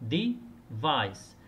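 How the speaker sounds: device stressed on the second syllable, de-VICE. Shown as a demonstration. Teacher modelling de-VICE for students. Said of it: "التشديد على المقطع الثاني".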